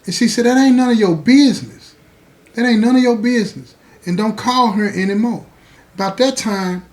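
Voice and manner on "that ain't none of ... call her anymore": put-on defiant girlfriend. Girlfriend shutting him down.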